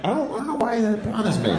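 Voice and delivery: passerby bothered by a crooked stance; puzzled onlooker. Retold or imitated. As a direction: play a confused stranger. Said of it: "just so people are like".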